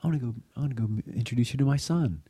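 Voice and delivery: gently coax, lifting the pitch; gentle voice. Retold or imitated. Aunt reassuring a nervous girl before confession, gentle voice. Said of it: "in her gentle voice said".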